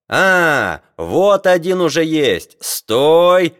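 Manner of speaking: high, loud cry building to a command; shouting. A narrator's reading. Sailors halting a scientist in the corridor, shouting. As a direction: shout as you spot your quarry. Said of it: "кричали матросы навстречу Леруа".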